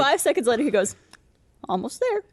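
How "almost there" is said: put-on cheery old man, laughing. Old man small talk.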